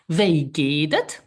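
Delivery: slow, careful "Wie geht es?" with a rising end; slow model phrase. Shown as a demonstration. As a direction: spell out "Wie geht es?" slowly for learners. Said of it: "This is".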